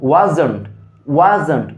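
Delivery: "wasn't" in two syllables, "wa-jon"; pronunciation demo. Shown as a demonstration. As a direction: say "wasn't" with a j-like middle, falling. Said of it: "was not-কে কি বলবা".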